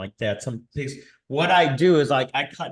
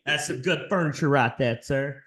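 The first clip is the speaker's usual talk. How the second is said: put-on Texas accent; 3 semitones higher than usual. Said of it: "'Cause people sound like this".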